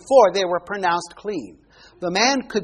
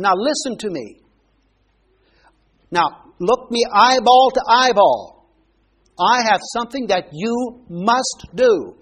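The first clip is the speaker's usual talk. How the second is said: harsh blunt command; 2 semitones higher, 4 dB louder than usual. Acted. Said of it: "spoke harshly with the man, bluntly".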